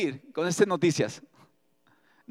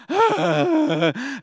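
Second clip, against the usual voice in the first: high imitated bawling; mock wailing; 6 semitones higher than usual. Preacher imitates the people crying all night, mock wail. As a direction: pretend to wail, long and high. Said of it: "toda la noche chillando".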